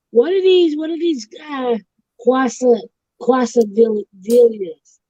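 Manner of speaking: squint at the menu and mangle quesadillas as Madea. Retold or imitated. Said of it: "she's like".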